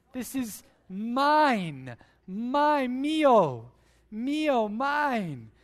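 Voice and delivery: put-on loud, slow whiny toddler claiming mine; bratty toddler. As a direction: play a greedy toddler grabbing a toy. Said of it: "the first words I ever spoke".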